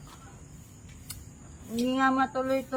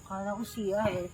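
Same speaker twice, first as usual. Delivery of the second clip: put-on drunk mumble; quiet slurred drunk; 4 semitones lower, 8 dB quieter than usual. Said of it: "Lasing ka na".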